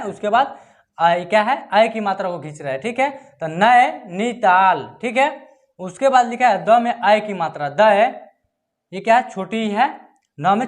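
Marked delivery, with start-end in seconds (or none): 3.5-5.0 stretched out. Shown as a demonstration. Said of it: "बड़ी ई को मात्रा को खींच रहे हैं".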